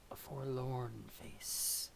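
slow, drawn-out forlorn delivery. Acted. Streamer pitying a sad face, mock forlorn. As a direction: draw it out mournfully.

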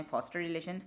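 'foster' with an open American O; bigger O in 'foster relation'. Shown as a demonstration. Teacher lists three versions, open O in 'foster relation'. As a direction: widen the O in foster. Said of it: "तीन तलफ़ुज़ होगा इस word के".

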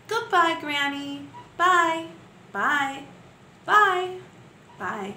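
expressive farewell poem, calling out each goodbye; poem for children. Acted. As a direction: wave goodbye in your voice, then let it fade. Teacher reads farewell poem.

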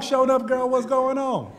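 high, loud Black Southern vernacular greeting; homegirl talk. Shown as a demonstration. Showing the roommate how he talks with homegirls, high and loud in hometown vernacular. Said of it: "That's how we talk".

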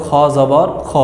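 খ with no long aa vowel, drawn out; slow, careful teacher's খ; correct Arabic letter. Shown as a demonstration. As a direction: say খ as the bare rounded letter, not খা. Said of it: "বর্ণটাকেই উচ্চারণ করতে হবে".

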